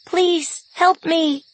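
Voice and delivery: high, pleading wounded calf cry; calf bawl. Acted. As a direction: bleat it like a hurt calf. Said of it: "in the sad voice of a wounded calf".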